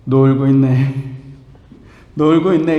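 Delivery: put-on a teacher sneering at kids who only got one right; 놀고 있네, drawn out with a scornful chuckle; sarcastic teacher. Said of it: "선생님이 지나가다가 그 아이들 보고 한마디 합니다".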